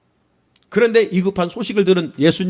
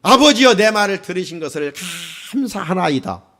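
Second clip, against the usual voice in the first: quiet prayer. Retold or imitated. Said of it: "이렇게 기도한".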